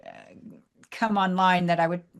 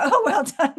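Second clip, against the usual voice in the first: mock praise; 10 semitones higher, 7 dB louder than usual. Mock praise to her son.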